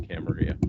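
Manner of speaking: Camarilla as cam-a-REE-ah; default Spanish-style pronunciation. Shown as a demonstration. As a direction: say Camarilla with a silent double L. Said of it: "my default I always fall to".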